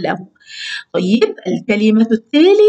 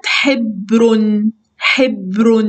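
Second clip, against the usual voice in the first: slow model reading; much slower than usual. Shown as a demonstration. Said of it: "هكذا".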